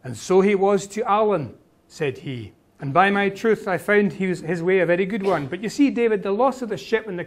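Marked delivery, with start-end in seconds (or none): 0.0-1.6 lightly voiced Highland Scots lilt; Highland Scots Alan. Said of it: "you can hear the Gaelic intonations". 2.8-5.5 lightly voiced Highland Scots lilt; Highland Scots Alan. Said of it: "you can hear the Gaelic intonations".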